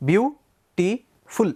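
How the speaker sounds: "beautiful" said very slowly in three beats, rising at the end; beautiful split into syllables. Shown as a demonstration. Teacher counting the syllables of "beautiful" aloud for students. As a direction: stretch "beautiful" into beau-ti-ful, lifting the last beat. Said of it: "three syllables".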